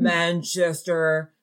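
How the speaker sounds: drawn-out imitation of a scammer; imitated halting speech. Friend imitating scammer naming an airport, slow and stretched. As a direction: stretch the place name out slowly. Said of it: "just the way he was saying".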